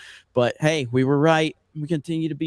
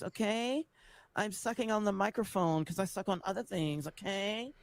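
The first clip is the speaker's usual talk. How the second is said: far-off clip voice; 4 semitones higher, 12 dB quieter than usual. Acted. Clip of lispy rant.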